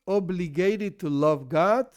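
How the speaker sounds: "obligated" slow and weighty in a question; slow, emphatic "obligated" in a pointed question; stress on obligated. Shown as a demonstration. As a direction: stretch out "obligated", then rise to ask. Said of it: "stress this word".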